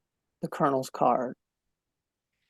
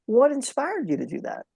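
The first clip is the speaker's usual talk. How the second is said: inviting question; 6 semitones higher than usual. Shown as a demonstration. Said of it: "Man, that's just such a great question".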